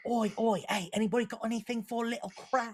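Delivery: quick cheeky Cockney urchin; a hint of a begging street kid. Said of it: "little urchin".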